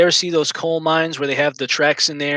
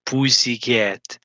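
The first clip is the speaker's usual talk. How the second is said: teasing; 3 semitones lower, much slower than usual. Pretend. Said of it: "how I actually piss off Omega".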